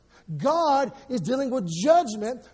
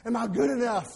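hammed-up begging prayer, louder; mock fearful begging; 3 dB louder than usual. Pastor mocking religious prayer, loud begging voice. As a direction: grovel to God in mock terror. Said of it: "He didn't say".

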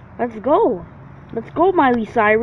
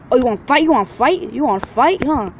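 taunting challenge; 4 semitones higher, faster than usual. Real, not acted. Taunting opponent in game.

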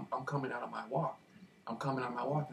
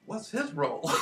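laughing; 4 semitones higher, slower than usual. Real, not acted. Asks nurse about gloved man.

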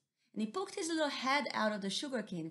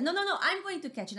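rival harvester; 10 semitones higher, 6 dB louder, faster than usual. Acted. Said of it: "the other one said".

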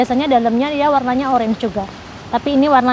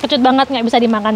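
talking while chewing something sour; eating sour orange. Real, not acted. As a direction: mouth full of sour orange. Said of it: "Luar biasa kecutnya".

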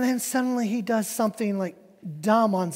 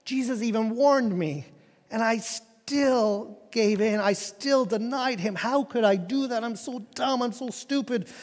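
sorrowful self-reproach; 3 semitones higher than usual. Acted. Peter blaming himself after denying Jesus, acted sorrowful self-reproach. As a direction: berate yourself in mounting despair. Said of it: "It was a godly sorrow".

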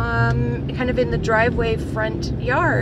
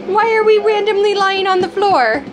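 much higher and louder sing-song; 10 semitones higher, 5 dB louder than usual. Real, not acted. Mom teasing her little son on the floor, high sing-song. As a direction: coo at him like a delighted mom.

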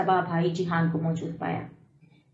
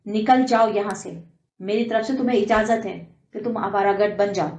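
louder, furious order to get out; shouting in rage; 4 dB louder than usual. Acted. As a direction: throw him out in a rage. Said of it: "چیخ کر کہا".

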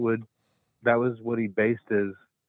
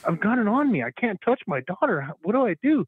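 mock panic; 11 semitones higher than usual. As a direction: play a frantic new dad in mock alarm. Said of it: "I'm like".

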